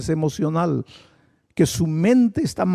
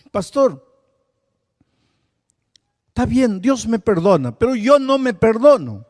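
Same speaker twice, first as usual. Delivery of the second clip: imitating churchgoers; 6 semitones higher, 4 dB louder than usual. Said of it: "mucha gente que me dice así".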